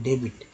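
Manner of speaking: डेबिट in two syllables with ब heard; the other word डेबिट, b fully pronounced; sounded b. Shown as a demonstration. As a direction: say डेबिट as "de-bit". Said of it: "वो तो खैर अलग word होता है".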